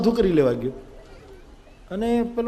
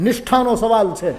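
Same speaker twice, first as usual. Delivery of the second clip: angry disciple; 3 semitones higher, 4 dB louder than usual. Acted.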